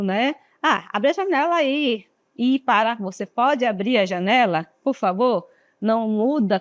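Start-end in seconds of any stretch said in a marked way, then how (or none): 0.6-2.0 blunt order. Shown as a demonstration. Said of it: "Olha como mudou o tom do pedido". 2.4-5.5 polite request. Shown as a demonstration. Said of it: "Olha como mudou o tom do pedido".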